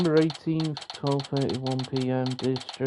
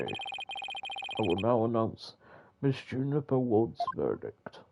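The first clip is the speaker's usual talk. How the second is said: lightly voiced old judge; 3 semitones lower than usual. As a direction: deliver it like a dignified old judge. Judge reads charges and verdict.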